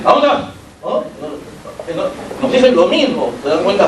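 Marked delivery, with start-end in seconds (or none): 0.0-0.4 sharp, heated ¿A dónde vas? a bit higher; ¿A dónde vas? con tono caliente. Shown as a demonstration. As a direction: ask it with heat, accusing. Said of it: "cuando están calientes nos dicen".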